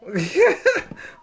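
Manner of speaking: sudden high laugh at the memory; burst of laughter. Real, not acted. Laughing while recalling the rat.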